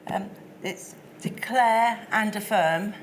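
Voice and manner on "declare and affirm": slow and deliberate, a bit louder; slower, clearer repeat. Real, not acted. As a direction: spell it out slowly for the link. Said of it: "your voice is very quiet".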